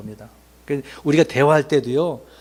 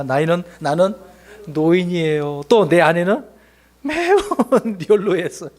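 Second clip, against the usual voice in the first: laughing excuse. Retold or imitated. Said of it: "사가랴 뭐라 그랬습니까".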